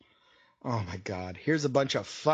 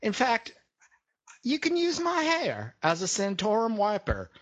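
higher, deliberate parody politician; mock candidate; 4 semitones higher than usual. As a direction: deliver it like a candidate's halting speech. Continues candidate voice.

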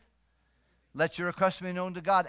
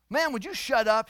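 louder, higher retold snap of anger; exasperated outburst; 7 semitones higher, 8 dB louder than usual. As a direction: act out a preacher losing his temper. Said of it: "he got so mad".

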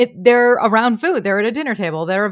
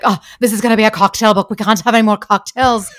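lightly attempted accent of a co-author, louder at the end; amateur go at mimicking a co-author's accent; playful, rough imitation of a colleague's accent; Stuart's accent; 6 dB louder, faster than usual. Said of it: "taking in the Stuart voice".

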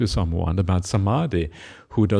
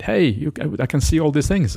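calling down the hill; 6 semitones higher than usual. Retold or imitated. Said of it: "so he shouts down to his friend".

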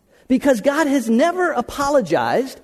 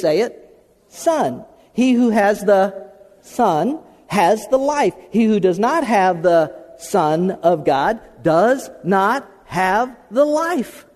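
scripture reading; slower than usual. Acted. Reads scripture aloud, slowly.

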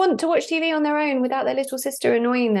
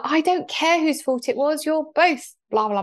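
mum dismissive; 5 semitones higher than usual. Retold or imitated. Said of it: "She'd be like".

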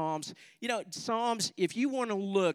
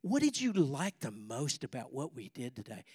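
gentle mom; 3 semitones lower, 3 dB quieter than usual. Retold or imitated. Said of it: "Mom comes to the rescue and says".

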